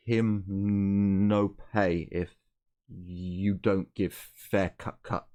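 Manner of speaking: translate haltingly, word by word; halting translator. Acted. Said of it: "Muttermouth, uh, translates".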